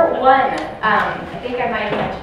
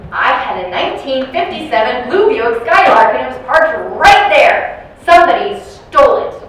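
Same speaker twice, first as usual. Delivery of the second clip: insistent complaint; 4 semitones higher, 9 dB louder than usual. Retold or imitated. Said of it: "and goes".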